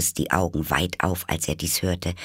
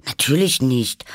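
high, loud, ready answer; prompt reply; 7 semitones higher, 5 dB louder than usual. Acted. Alice retorts to the Hare, prompt and high. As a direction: answer back at once, pitched up. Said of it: "antwortete Alice schnell".

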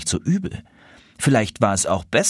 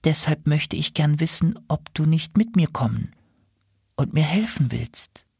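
higher, pleading gander voice; gently ask, goose voice; 6 semitones higher than usual. Acted. Goose asks Nils.

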